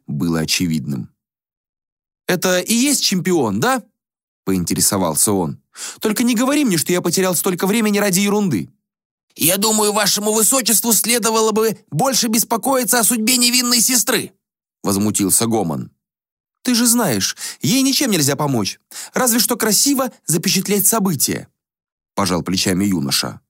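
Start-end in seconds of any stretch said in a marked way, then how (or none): 2.3-8.7 put-on high, airy voice of a vain young prince; a high, languid young prince; prince Axius voice. Prince character voice. 9.3-14.3 put-on higher voice of a solemn old ascetic; a lightly voiced reproachful sage. 16.6-21.5 put-on high, airy voice of a vain young prince; a high, languid young prince; prince Axius voice. Prince character voice.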